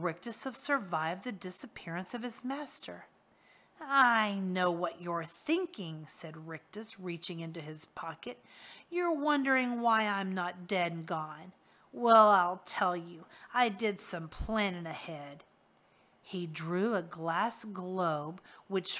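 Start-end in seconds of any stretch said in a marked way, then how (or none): 3.8-6.1 a leering, slow, taunting henchman; sly villain voice. Acted. Rictus taunts Harvey. 8.9-15.4 a leering henchman, gloating; smug villain boast. Acted. Rictus boasts to Harvey.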